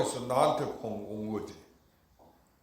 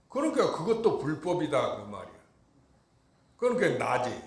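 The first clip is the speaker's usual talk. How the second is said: ordinary delivery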